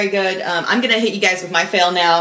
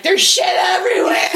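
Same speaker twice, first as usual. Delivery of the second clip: higher, louder yell through laughter; laughing yell; 10 semitones higher, 3 dB louder than usual. Retold or imitated. Dog owner yelling to Cassie at the door, laughing shout. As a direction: shout it in half-laughing panic. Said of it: "I yell to Cassie".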